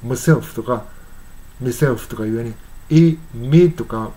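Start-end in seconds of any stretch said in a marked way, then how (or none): 3.3-3.7 "め" drawn out slowly as a short "me" sound; reduced vowel. Shown as a demonstration. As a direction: stretch out "め" to show the clipped "my". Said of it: "発音してる". (「め」とゆっくり伸ばして)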